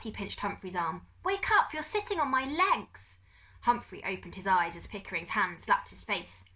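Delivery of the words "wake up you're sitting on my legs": high, loud, indignant yell; Pickering shouting. A narrator's reading. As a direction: yell it up in his face, outraged. Pickering yelling at Humphrey.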